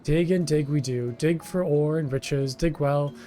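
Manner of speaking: whiny kobold. Acted. Kobold foreman Gigu complaining to the hero, wheedling. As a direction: play a self-pitying kobold pleading with a stranger.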